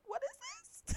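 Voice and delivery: high, baffled questioning; mock surprise. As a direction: act out the confusion. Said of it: "I was like".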